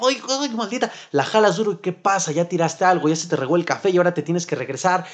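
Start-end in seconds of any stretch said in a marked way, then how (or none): 0.1-0.9 mock anger. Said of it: "con coraje".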